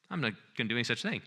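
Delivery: dismissive husband. Retold or imitated. Husband refusing his wife.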